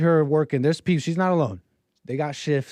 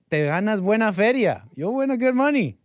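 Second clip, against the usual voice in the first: excited pitch; 8 semitones higher, 4 dB louder than usual. Retold or imitated. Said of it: "is how he told me".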